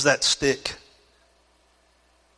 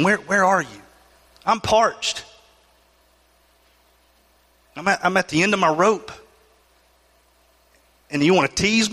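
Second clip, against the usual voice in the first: a touch higher, pleading cry to the Lord; lament to God; 3 semitones higher than usual. Acted. Preacher acting a believer crying to the Lord, mild pleading lament. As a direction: plead as if forgotten and parched.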